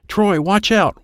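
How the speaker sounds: high warning call, little added volume; yelled warning. A narrator's reading. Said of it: "Dad is yelling to me".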